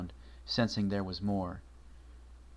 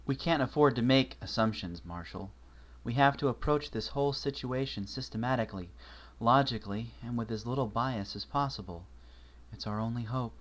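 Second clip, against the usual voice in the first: lightly voiced young mare; 2 semitones higher than usual. Twilight telling Marshall about the creature, lightly voiced and uneasy.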